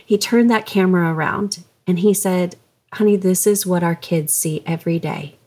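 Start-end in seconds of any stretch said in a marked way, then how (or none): 2.9-5.3 hushed, tender retelling, close to a whisper; gentle and loving. Retold or imitated. Wife retelling husband's words to her, gently and lovingly. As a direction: break hard truth to someone softly and lovingly. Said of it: "just in a very gentle and loving way".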